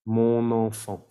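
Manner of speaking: "Mon enfant" slowly as "mo-non-fon"; liaison demo. Shown as a demonstration. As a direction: carry the N across "Mon enfant". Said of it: "se hace la liaison".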